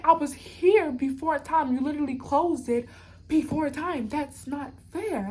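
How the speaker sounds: slow, insistent indignation; emphatic protest. Retold or imitated. Passenger protesting the closed door to police, indignant. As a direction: plead the injustice, stretching the key words.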